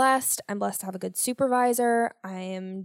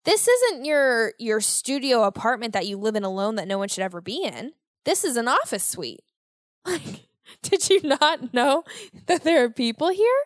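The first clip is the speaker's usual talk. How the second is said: mock coworker. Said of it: "because they're like".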